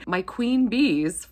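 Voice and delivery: normal talking voice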